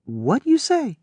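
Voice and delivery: put-on high, surprised old man. A narrator's reading. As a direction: demand she repeat it. Old man challenges her.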